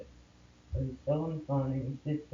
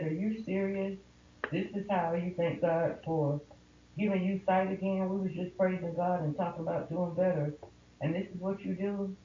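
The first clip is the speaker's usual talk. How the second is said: higher, incredulous scolding; retold outraged challenge; 5 semitones higher than usual. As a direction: scold him in disbelief. Confronting husband in retold fight.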